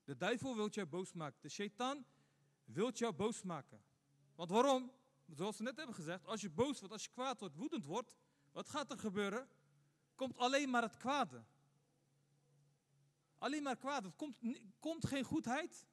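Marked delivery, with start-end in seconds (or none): 4.3-4.9 rhetorical question thrown out loudly; emphatic question. Real, not acted. Preacher asks congregation, emphatic louder question. 10.2-11.4 alleen hit hard and loud; stress on alleen. Real, not acted. Preacher warns the congregation, stress on alleen.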